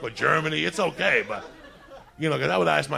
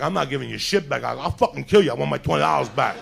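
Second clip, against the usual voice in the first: angry yell; 7 dB louder than usual. Retold or imitated. Quarrel continues, both shouting.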